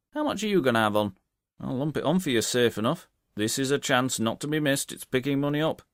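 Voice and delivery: hearty publican, half-impressed; landlord. Acted. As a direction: bluff landlord, admiring. Landlord voiced in story.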